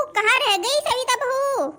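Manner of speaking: high, slow, demanding call. Acted. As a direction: pull the words long to summon her. Grandmother calls out for daughter-in-law.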